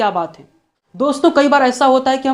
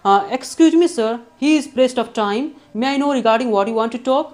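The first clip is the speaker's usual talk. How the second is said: slow, polite phone-desk demo; slow receptionist line; much slower than usual. Shown as a demonstration. Teacher showing how the receptionist asks, slow and polite. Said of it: "तो कैसे पूछेंगी".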